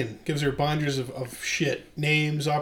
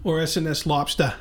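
put-on light Boston accent, dropped r's; a quick hint of Boston. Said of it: "as Carol would say, our mom, 'cause of her Boston accent".

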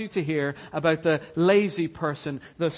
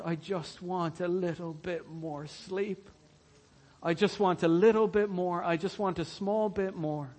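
soft, drowsy plea for more sleep; sleepy sluggard; 6 dB quieter than usual. Acted. Preacher playing the sluggard begging for sleep, soft and drowsy. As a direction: beg for just a bit more rest.

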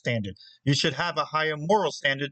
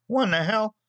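mock outburst; 7 semitones higher, slower than usual. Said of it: "the staff is unanimously".

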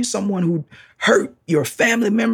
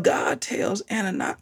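whisper; 3 semitones higher, 6 dB quieter than usual. Acted. Preacher drops to whisper.

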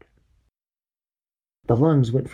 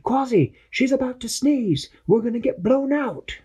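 higher, lively captain giving orders; captain briefing his crew, voice pitched up; Captain Barnacle voice. Acted. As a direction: call the plan like a brave little captain. Captain warns.

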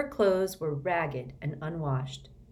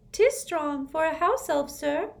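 high, louder elf voice; squeaky house elf; 11 semitones higher, 4 dB louder than usual. Acted. Dobby correcting Harry, squeaky elf. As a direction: pipe it like a little house elf.

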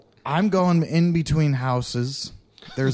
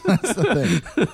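slower, laughing through the words; 5 semitones higher, slower than usual. Real, not acted. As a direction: chuckle it out slowly. Repeats the line through laughter.

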